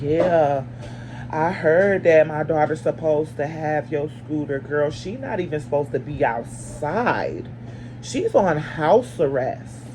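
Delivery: slow, low, unbothered mom; mildly imitated calm mother on the phone. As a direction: imitate the neighbor mom's calm drawl. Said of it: "She talking like this, y'all, calm".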